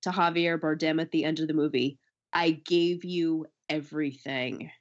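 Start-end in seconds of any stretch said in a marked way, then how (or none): 2.3-4.7 slow, hushed, wounded delivery; lightly imitated actress line; quoting Jennifer Lawrence. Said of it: "The way that Jennifer Lawrence says".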